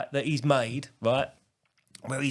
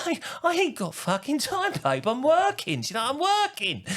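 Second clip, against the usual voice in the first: mock harassed husband; 11 semitones higher than usual.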